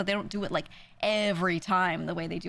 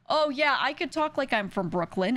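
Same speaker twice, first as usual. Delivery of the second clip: boastful streamer; 5 semitones higher than usual. Retold or imitated. Streamers boasting to a New Yorker about accents, mock bragging. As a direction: imitate a cocky streamer showing off. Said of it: "streamers come up to me and be like".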